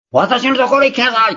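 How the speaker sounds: high, loud summoning cry; demonstrating Jesus' loud invitation; loud call. Shown as a demonstration. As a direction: call out to the whole world. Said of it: "とか、こういう感じですね".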